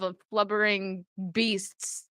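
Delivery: barely getting it out without cracking up; stifling laughter. Real, not acted. Reading the manatee facts aloud, fighting back laughter. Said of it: "I can't say without laughing".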